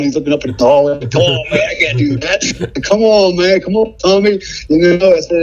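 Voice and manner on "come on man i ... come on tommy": higher, pleading come on; begging a buddy, voice climbing; a little desperate. Retold or imitated. Begging his friend Tommy to check him, desperate. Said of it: "you can tell I get a little desperate".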